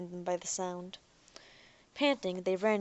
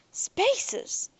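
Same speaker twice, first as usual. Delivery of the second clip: almost reverent; 4 dB louder than usual. Acted. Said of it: "said Jake in almost reverent tones".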